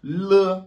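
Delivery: "Mo" called high and loud; quiz answer letter. Shown as a demonstration. Teacher revealing the quiz answer, high. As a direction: announce "Mo" as the answer.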